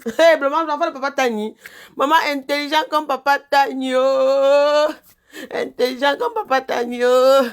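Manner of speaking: loud, high proud cheering; proud excited exclaim. Real, not acted. Mother loudly praising her son as his father's child, excitedly.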